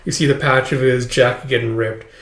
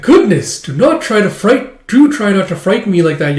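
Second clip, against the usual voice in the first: high, fussy servant's scolding; prim maid recovering from a fright; flustered maid; 6 semitones higher, 5 dB louder than usual. Acted. Flustered maid gently scolds child.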